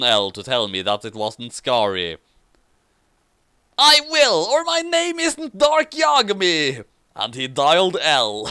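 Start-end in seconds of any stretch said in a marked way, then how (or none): 3.8-6.8 dramatic vow. Acted. Dark vowing to phone L, hammed-up. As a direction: swear it like a melodramatic anime hero.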